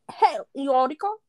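breathy whispered attempt at a Scottish accent; half-whispered mock Scottish greeting. Teasing a friend with a mock Scottish accent.

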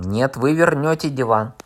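loud cry of protest; shouting after him. Acted. Fat man chasing Korneev through the wall, shouting. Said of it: "с криком".

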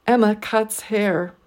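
Em, cuts, hair stressed, ma unstressed; deliberate three-beat Emma cuts hair; three stresses, one weak. Shown as a demonstration. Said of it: "three stressed syllables and one unstressed syllable".

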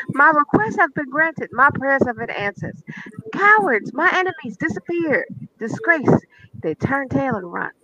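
lamenting reading with long pauses, like a sermon; dramatic psalm reading. Acted. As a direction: read the psalm as a theatrical lament with ad libs. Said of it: "it sounded in my head with the extra ad libs".

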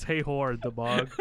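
choking mid-sentence after a sip; words sputtered through a spit take. Real, not acted. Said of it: "You okay, Tim?".

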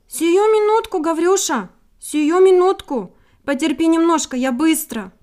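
high, loud, eager little bird; cartoon princess. A narrator's reading. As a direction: chirp out a quick reassurance. Bird reassures trapped wolf.

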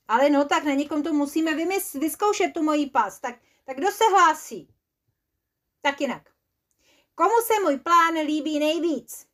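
needy inventor begging for praise; insistent pleading. Acted. Pushes friends to try trap.

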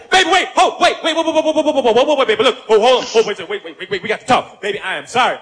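panicked pleading; frantic begging to stop; scared and angry. Acted. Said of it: "it was like this".

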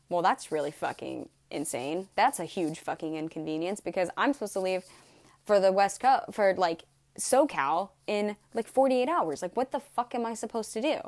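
building from annoyed to a loud outburst; exasperated rant. Retold or imitated. Her angry reply to the mechanic, building to shouting. Frustrated rant about ruined trip.

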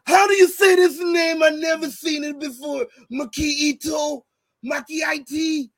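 impersonating friend's promo. Retold or imitated. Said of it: "how you do my impersonation".

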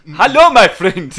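high, booming, drawn-out hello; loud put-on voice, stretched and high; hammed-up greeting. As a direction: belt out a slow comic greeting. Hammed-up start of accent bit.

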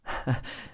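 short, breathy chuckle; a small unvoiced laugh to oneself; soft laugh. Lover musing on Shakespeare's line, soft laugh.

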